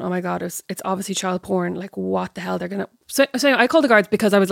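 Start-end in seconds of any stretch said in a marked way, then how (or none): 0.0-2.9 soft, hushed thoughts; inner voice, softer. Retold or imitated. Hushed inner worry while spying on the neighbours. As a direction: think it to yourself quietly. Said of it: "in my head going".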